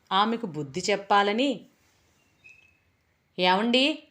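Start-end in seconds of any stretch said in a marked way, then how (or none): 3.4-4.0 wife calling out. Acted. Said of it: "భార్యామణి అరుపుకి".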